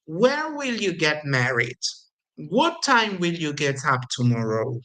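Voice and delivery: "Where" and "What" stressed, each question falling low; teacher demo of falling wh-question intonation; falling question tune. Shown as a demonstration. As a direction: bring the voice down at the end of each wh-question. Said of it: "The intonation goes down".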